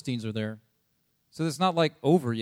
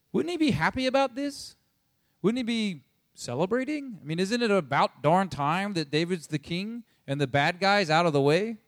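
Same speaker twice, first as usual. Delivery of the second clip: higher, swooping incredulous questions; puzzled objection; 4 semitones higher than usual. Acted. Listener wondering why David isn't celebrating, puzzled objection. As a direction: play a baffled listener objecting.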